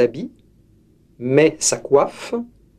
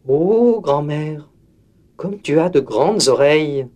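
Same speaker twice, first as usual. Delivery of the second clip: put-on wondering girl. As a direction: marvel at the big ears. Girl questions wolf.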